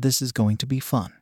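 soft, mischievous and sultry. Acted. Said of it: "in a very mischievous and sultry voice".

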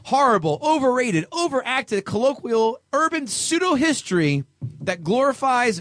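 high, hammed-up indignant review read; mock outraged reviewer. Host reading a one-star review aloud, mock indignant. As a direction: read it like an offended snob. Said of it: "Amazon one-star reviews".

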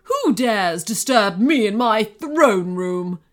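loud, outraged goblin queen; imperious villain shrieking at intruders. A narrator's reading. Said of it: "she shrieked".

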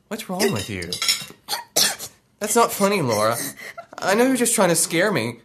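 put-on high, whiny kid voice; young boy. Boy Joey answering his mother, whiny and high. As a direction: play the boy brushing it off. Child self voice.

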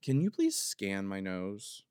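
slow, deliberately calm ask; asking the doctor to scan her nose, slow and calm; calm request. Pretend. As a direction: keep it slow and even, like nothing's wrong. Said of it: "the most calmly to be like".

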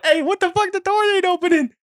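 very high mock protest from behind a door; imitated indignant holler. Kids held in the locker room, high mock complaint. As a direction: squeal it like someone stuck inside. Trapped kids shouting, retold.

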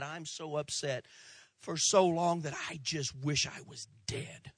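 weary lament. Retold or imitated. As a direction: sigh it out, drained and defeated. Bitter person's inner lament quoted.

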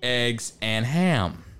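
slow, deliberate reading in a pretend scholarly manner; mock intellectual. Bar intellectual reading Green Eggs and Ham aloud, mock-solemn. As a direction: read it slowly, as if it were great literature. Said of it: "True intellectual".

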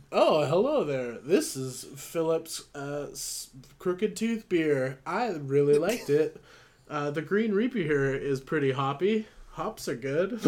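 a hint of a tipsy ad host, slow on the brand name; mock-proud drunken spokesman, lightly voiced; dumbest beer promo. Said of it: "the dumbest promo".

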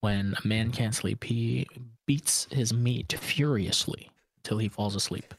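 unvoiced, hushed confession; whisper. Real, not acted. Confessing to friends, hushed whisper. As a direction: whisper it like a dirty secret.

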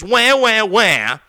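mocking baby wail, wah wah wah; sarcastic mock whimper; mock crying. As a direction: whine it like a crybaby, teasing. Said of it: "complaining about all of his losses".

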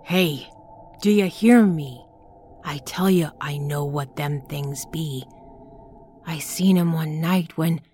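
urgent call. Acted. Urgent, demanding attention.

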